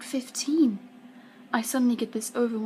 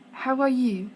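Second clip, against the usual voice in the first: a hint of French, louder; French accent; 3 semitones higher, 5 dB louder than usual. A narrator's reading. Missus Eiffel greeting a young guest, light French accent. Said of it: "says in her lovely French accent".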